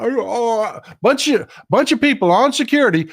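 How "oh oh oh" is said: high mock gasps of delight; mock donor gasps. Imitating the donors reacting to Mike Lee. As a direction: pretend to be a donor cooing in delight. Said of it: "And them clapping".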